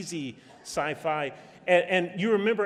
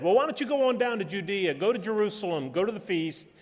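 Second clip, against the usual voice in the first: higher and fast, mocking dare; sarcastic brothers; 5 semitones higher, faster than usual. Brothers taunting Jesus to go to the feast, sarcastic. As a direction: needle him like a scornful brother. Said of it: "the brothers sarcastically said".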